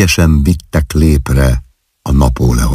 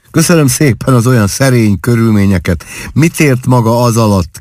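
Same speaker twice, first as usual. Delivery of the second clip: higher, teasing ironic question; playful mockery; 6 semitones higher than usual. A narrator's reading. Husband teasing his bride about her modest upbringing, playfully mocking. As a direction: tease her gently with mock thanks. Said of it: "kérdé pajkos gúnnyal".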